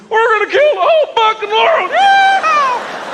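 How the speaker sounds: over-the-top American redneck yell. Retold or imitated. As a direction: ham up a rowdy hillbilly battle cry. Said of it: "they'd sound like this".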